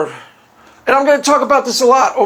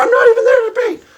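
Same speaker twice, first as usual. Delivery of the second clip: put-on high, fast squeaky girl voice; Stephanie voice; 13 semitones higher, 3 dB louder, faster than usual. Stephanie repeats the lesson fast in a high squeaky voice. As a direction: rattle it off like a keen pupil. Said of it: "my Stephanie imitation".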